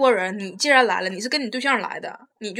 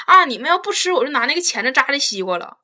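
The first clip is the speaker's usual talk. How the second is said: mock clueless girlfriend; 3 semitones higher, 4 dB louder than usual.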